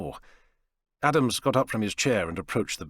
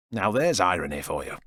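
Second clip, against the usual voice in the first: sarcastic. Acted. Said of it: "Dan said sarcastically".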